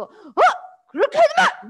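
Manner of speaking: angry shout at someone; angry yell. Acted. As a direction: snap at someone to stop. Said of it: "뭐 이렇게 얘기하고".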